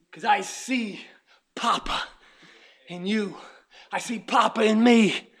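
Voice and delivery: hushed intimate whisper. Real, not acted. Preacher whispering to the congregation. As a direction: lean in and whisper it.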